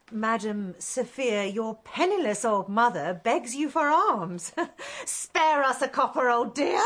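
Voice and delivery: mock beggar woman. Mother teases her newly rich daughter in a mock beggar voice. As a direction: hams up a pitiful old beggar, laughing at her daughter. Mother mocks begging for alms.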